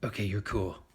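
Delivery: low, offhand guard voice; killer T cell. Acted. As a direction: wave them through in a low voice.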